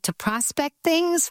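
"prospect" said PRAH-spect, slowly; short-O pronunciation. Shown as a demonstration. Host asking about a different meaning, "prospect" as PRAH-spect. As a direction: say "prospect" with the short open O of "prod". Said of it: "tell me why the pronunciation".

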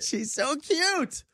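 very high, drawn-out adoring squeal; gushing. Real, not acted. Host gushing to dad about his daughter, adoring squeal. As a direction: coo it high and stretch it right out. Gushing after the child's call.

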